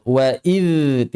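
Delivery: "wa idz" with a thin, light dz; "wa idz" kept thin and clean; thin dhal. Shown as a demonstration. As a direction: hold a light tongue-tip buzz on "idz".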